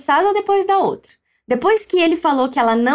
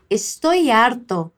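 slow model phrase; 4 semitones lower, slower than usual. Shown as a demonstration.

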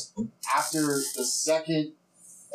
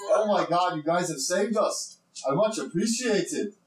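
higher-pitched, lightly voiced rescued dwarf; grateful dwarf; 4 semitones higher than usual. Rescued dwarf thanking the party, high grateful voice. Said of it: "I can't do Scottish accent".

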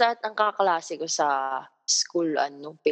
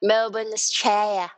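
clipped Aussie "Straya"; lightly put-on Australian accent; mock Aussie accent; 3 semitones higher than usual. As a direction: say it like a local Australian, playfully. Slangy Aussie pronunciation of place names.

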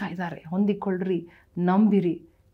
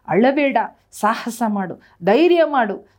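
higher, louder cry of encouragement; rousing exhortation; 3 semitones higher, 8 dB louder than usual. Acted. Pastor urging a weeping daughter not to cry, loud and high. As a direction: lift them up, urging courage.

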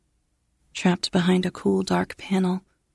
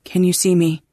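louder, tense question said like an answer; tight, upset question; 4 dB louder than usual. Acted. Katie asking the blind module, tight and upset. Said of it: "the tightness in her voice".

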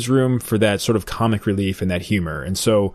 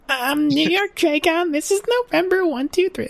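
dumb pilot radio voice. Retold or imitated. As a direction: play the pilot as a clueless caller on the headset. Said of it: "make the guy sound really stupid".

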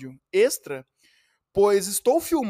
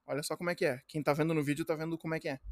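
talking between sips of coffee; while sipping a drink; 3 semitones lower, 9 dB quieter, much faster than usual. Real, not acted. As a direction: speak softly over the coffee cup. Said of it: "um gordo tomando café".

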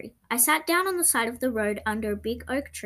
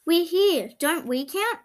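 imagined dogs' voice; 6 semitones higher, 3 dB louder than usual. A narrator's reading. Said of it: "as if to say".

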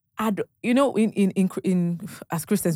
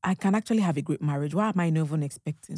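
touched musing; 3 semitones lower, 4 dB quieter than usual. Retold or imitated. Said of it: "I'm like".

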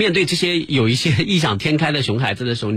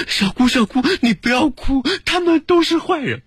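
put-on much higher little-girl voice, pleading; imitating a little girl; 11 semitones higher than usual. Narrator voices a little girl comforting her aunt. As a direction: squeak it like a small child comforting her aunt.

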